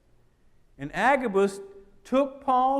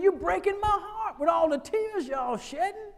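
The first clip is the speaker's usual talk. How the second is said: Paul's voice; 9 semitones higher than usual. Acted. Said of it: "He said".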